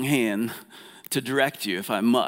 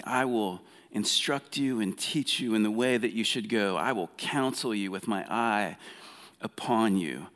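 softer, gentle reading of the promise; tender God; 3 dB quieter than usual. Acted. Preacher voicing God's promise to listeners, soft and tender. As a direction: let the promise land softly. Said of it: "I think this is God speaking here".

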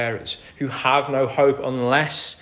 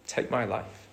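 weary despair. Retold or imitated. Jonah voiced despairing, wanting death.

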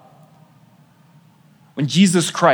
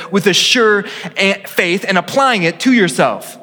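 preaching a quote; 2 semitones higher than usual. Acted. Pastor reads Luther to congregation, emphatic and measured. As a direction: read Luther's words to the congregation with weight.

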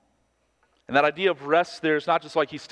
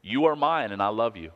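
tender. Shown as a demonstration. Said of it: "simple, but again, profound and beautiful".

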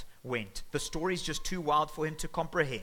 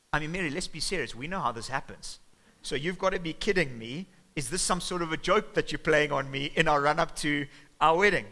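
building from fast disbelief to a loud outraged peak; rising indignation, louder to the end; incredulous anger; 2 semitones higher, 6 dB louder than usual. Acted. Joseph confronting Mary before the wedding, rising to a loud outrage.

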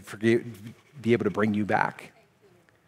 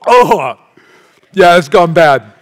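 loud, high, recoiling at the taste; disgusted after tasting; 6 semitones higher, 13 dB louder, slower than usual. Retold or imitated. After tasting sour milk, loud disgusted verdict. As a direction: spit out the verdict. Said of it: "you gotta just taste it".

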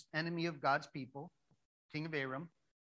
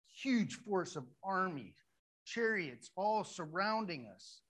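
slow, higher-pitched acted astonishment; overawed servant; 4 semitones higher, slower than usual. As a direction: draw out each phrase in mock alarm. Servant sees army all around.

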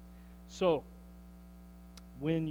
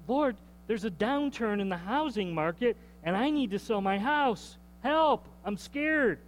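frightened prayer; 3 semitones higher than usual. Retold or imitated. Anxious homeowner praying to the Lord, frightened plea. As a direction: let the worry spill into a plea. Worried believer praying aloud.

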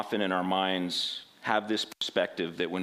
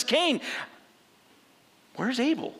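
God calling; 14 semitones higher than usual. Acted.

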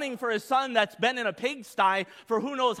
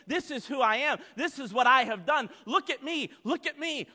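higher, insistent, repetitive bragging; showy boasting; 4 semitones higher than usual. Acted. Pharisee parading his deeds before everyone, showy insistent boasting. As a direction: demand attention with each phrase.

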